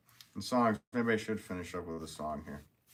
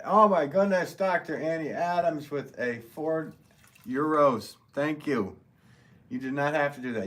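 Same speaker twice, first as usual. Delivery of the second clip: high, loud burst of delighted surprise; excited thanks; 8 semitones higher, 7 dB louder than usual. Real, not acted. Streamer to Doctor Annie after her euros, excited. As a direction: exclaim it high and loud, thrilled by the gift.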